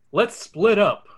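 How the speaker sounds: light Daphne voice with a firm fall; decisive Daphne. Acted. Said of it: "Daphne concludes".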